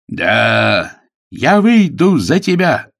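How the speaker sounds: loud declaration leaping high; shouted acceptance. A narrator's reading. Agnes tells Sidney she will marry him, shouting. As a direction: call it out loud, climbing in pitch.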